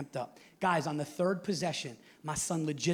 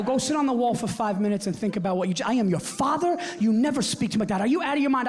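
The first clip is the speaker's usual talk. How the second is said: stern father; 5 semitones higher, 5 dB louder than usual. Retold or imitated. Dad disciplining son sternly.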